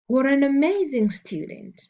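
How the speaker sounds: exclaiming. Shown as a demonstration. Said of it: "sentences that express strong feelings".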